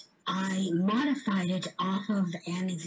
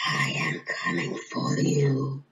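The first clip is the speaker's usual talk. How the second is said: a lightly lowered, menacing monster voice; hint of a spooky creature voice; skeleton dragon voice; 6 semitones lower than usual. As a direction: threaten like a bony dragon, only a little deeper. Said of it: "make your best skeleton dragon noise".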